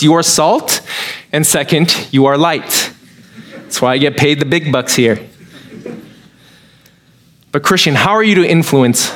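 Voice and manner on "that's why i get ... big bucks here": laughing joke. Real, not acted. Self-mocking joke with laugh.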